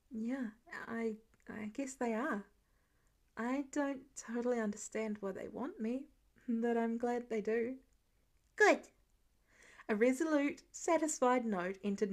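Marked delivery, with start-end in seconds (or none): 0.1-7.8 hushed, breathy admission, nearly a whisper; quietly owning something tender; soft. Acted. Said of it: "soft as it was". 8.6-8.9 put-on high, loud, firm kid's "Good."; a kindergartner settling the matter; satisfied little boy. Child satisfied.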